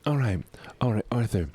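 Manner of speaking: whispered stealth. Real, not acted. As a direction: whisper to stay hidden. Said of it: "get really quiet".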